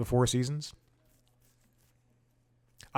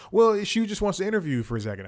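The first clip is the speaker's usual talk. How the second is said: higher-pitched, lightly imitated Italian accent; a hint of Italian, pitched up; 10 semitones higher, 5 dB louder, faster than usual. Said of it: "I think it might be Italian".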